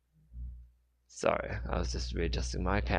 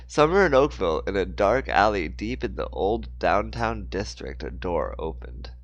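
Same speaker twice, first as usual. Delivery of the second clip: story narration; 4 dB louder than usual. A narrator's reading. Narrator setting a dark alley scene for listeners, story narration.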